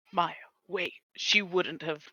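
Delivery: breathy whispered aside. Acted. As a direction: whisper it to yourself. Worried aside about Maya.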